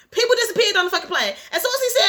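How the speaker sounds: fast and emphatic; passionate. Real, not acted. Reader outraged at the calm captain, fast. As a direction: hammer the point home. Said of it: "I'm passionate at this point".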